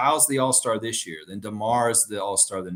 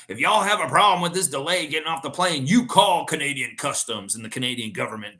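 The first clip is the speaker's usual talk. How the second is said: imitated Georgia pilot's Southern accent, higher at first; 3 semitones higher, 4 dB louder than usual. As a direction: play a Southern pilot making an announcement. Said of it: "a Southern accent".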